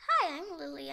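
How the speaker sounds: lightly played polite doll greeting; corrected friendly greeting. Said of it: "I mean. Sorry".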